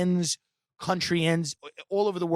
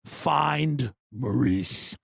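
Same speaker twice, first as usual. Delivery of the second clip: put-on haughty old lady; 2 semitones lower, slower than usual. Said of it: "she goes".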